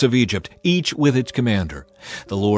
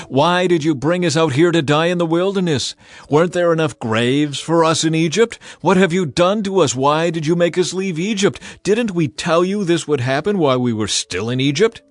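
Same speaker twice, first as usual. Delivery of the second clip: higher, louder, accusing and frightened; panicked outcry; 5 semitones higher, 4 dB louder than usual. Acted. Israelites trapped at the sea, crying out at Moses in loud panic. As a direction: hurl the blame at Moses in panic. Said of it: "They cried out to the Lord".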